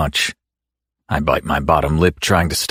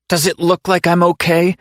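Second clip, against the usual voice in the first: growling; 12 semitones higher than usual. Acted. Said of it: "she growls".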